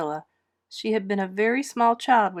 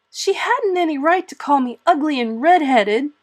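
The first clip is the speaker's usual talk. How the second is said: high, loud and defiant; defiant retort; 7 semitones higher, 8 dB louder than usual. A narrator's reading. Anne defending herself to Marilla, high defiant retort. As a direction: fire it back, evasive and defiant. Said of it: "retorted Anne, evasive and defiant".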